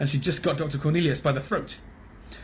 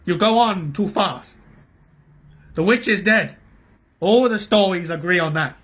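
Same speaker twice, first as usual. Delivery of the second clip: urgent doctor; 5 semitones higher, 5 dB louder than usual. A narrator's reading.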